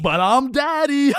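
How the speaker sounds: woman's voice. Acted. Date voiced in storytelling skit.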